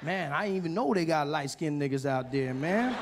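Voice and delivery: imitating a thrilled guy, with a laugh; excited comedian. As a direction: gush like you just met a celebrity. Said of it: "He's like".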